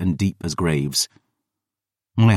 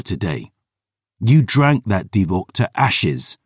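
louder, higher, building tirade; furious rant; 3 semitones higher, 3 dB louder than usual. Acted. Brother hurling demands at his sister, louder and furious. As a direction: unload every accusation, heated.

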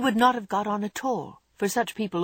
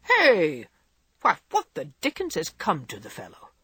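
startled exclamation. A narrator's reading. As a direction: call out at the boy racing downstairs. Grandfather startled by Laurie.

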